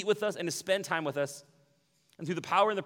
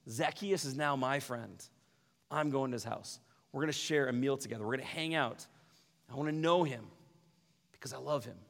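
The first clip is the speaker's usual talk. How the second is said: gentle Jesus voice. Retold or imitated.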